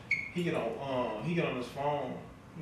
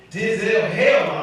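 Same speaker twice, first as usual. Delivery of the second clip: loud, higher mock outrage; auntie's outraged yell; 5 semitones higher, 12 dB louder, slower than usual. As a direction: bark it back like a shocked auntie. Auntie voiced again.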